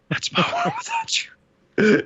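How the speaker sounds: high, slow sappy crooning; sappy falsetto. Retold or imitated. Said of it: "he's like".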